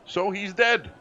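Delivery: no longer meek. Acted. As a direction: drop the servant act, state it flatly as a fact. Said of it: "he's no longer meek".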